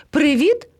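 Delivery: high hail with rising end; first call across to friends. A narrator's reading. Parrot hailing the cubs, calling out. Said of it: "гукнув до них".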